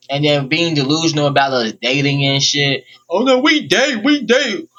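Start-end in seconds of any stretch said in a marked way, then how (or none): 3.1-4.7 high mocking girl voice; squeaky imitation of her insisting; mocking girly voice. Mocking the girl's claim.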